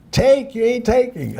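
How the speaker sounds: put-on loud, very high, outraged Jewish accent; heavy Jewish accent. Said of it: "with a heavy Jewish accent".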